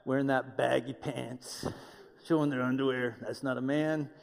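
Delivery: a hint of a grouchy old-timer complaining; older guys griping about young men's pants, lightly voiced; grumpy older guy. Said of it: "they're always like".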